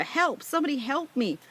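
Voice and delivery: high, loud panicked cries for help; screaming into the mic in terror; a boy lost in a plane, crying out. A narrator's reading. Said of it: "began to scream into the microphone".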